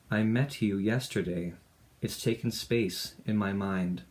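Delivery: measured spoken-word poem delivery; poetry reading. Acted. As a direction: read it as a poem, line by line with small pauses. Reads own poem aloud.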